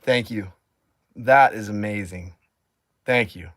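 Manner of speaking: loud, emotional, gushing thank-yous; overjoyed thanks. Real, not acted. Thanking a viewer loudly for the rental.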